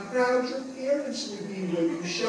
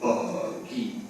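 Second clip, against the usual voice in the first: slow rhythmic poem reading; poem recital; slower than usual. Acted. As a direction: recite the rhyme with bounce. Performs tongue twister poem.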